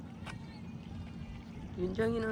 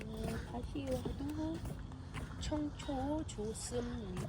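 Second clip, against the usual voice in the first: robot voice; 8 dB quieter, slower than usual. Real, not acted. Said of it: "그렇게 로봇처럼 말하면 안 된다고".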